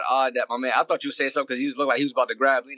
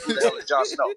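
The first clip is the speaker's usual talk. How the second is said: retold blunt question; 8 semitones higher than usual. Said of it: "cause I said".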